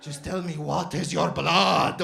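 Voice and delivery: slow, loud, drawn-out question; probing shopkeeper. Retold or imitated. Doner guy demands customer's descent, slow and insistent. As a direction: stretch each word insistently.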